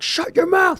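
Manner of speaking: high-pitched imitation of a yelling cop; mock police shout; retold cop shouting. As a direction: yell it like a cop cutting someone off. Acting cops escalating to yelling.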